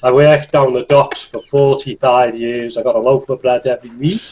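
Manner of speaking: put-on Liverpool accent of an old dockworker, unhurried; a grumbling old Liverpool docker in a Scouse accent; Scouse accent, an old man remembering the docks. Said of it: "the old Scouse".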